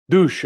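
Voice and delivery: mouthed splash of a ball; splash imitation. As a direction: make a quick plunging "doosh".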